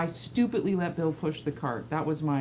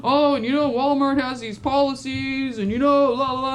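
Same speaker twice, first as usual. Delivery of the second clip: higher and louder, laughing through it; mocking son, laughing; 6 semitones higher, 5 dB louder than usual. Mother mocking her son's excuses, higher, louder and laughing. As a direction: mimic his excuses while cracking up. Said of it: "he's like".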